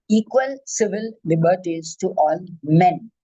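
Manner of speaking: men lightly stressed, said firmly at the close. Shown as a demonstration. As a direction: lean on the word men at the end. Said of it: "I emphasize the word men".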